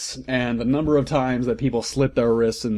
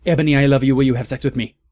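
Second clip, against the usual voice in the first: louder, lovey-dovey plea; mock lovestruck villain; 4 dB louder, much faster than usual. Villain falling for Ebony, lightly hammed lovey-dovey plea. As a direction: swoon out the proposal. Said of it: "he said".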